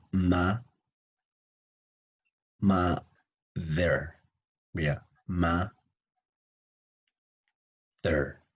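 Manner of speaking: "mother" split into MA, pause, THER; syllable-by-syllable demo. Shown as a demonstration. Teacher shows students the mouth, "mother" in two separate pieces. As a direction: say "ma" open, pause, then "there". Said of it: "I'm going to show you my mouth".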